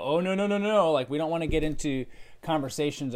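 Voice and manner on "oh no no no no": mock reluctance. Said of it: "we might go".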